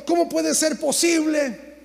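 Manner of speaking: slow, mild mock complaint; a lightly voiced, drawn-out whine; slow retold lament. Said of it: "lloraba y me quejaba".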